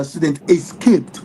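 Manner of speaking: "escaped" slowed and leaned on, pitch dropping; stress on escaped. Shown as a demonstration. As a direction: lean hard on "escaped", slowly. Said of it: "Emphasis on the word escaped".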